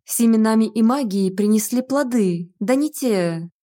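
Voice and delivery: ordinary delivery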